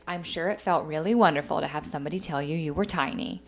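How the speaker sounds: low, condescending imitation of mom. Mother belittles daughter's compliment from a stranger, condescendingly. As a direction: drop low and patronise. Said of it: "And then very condescendingly".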